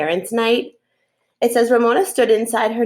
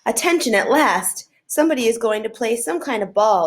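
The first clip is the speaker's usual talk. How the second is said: proud; 3 semitones higher than usual. Acted. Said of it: "proud to have actually read".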